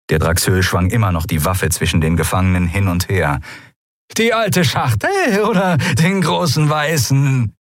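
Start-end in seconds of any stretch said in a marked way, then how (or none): 4.2-7.5 high, rasping scornful voice; rasping sneer. Acted. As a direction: rasp it out with contempt. Draxyl taunts prisoners.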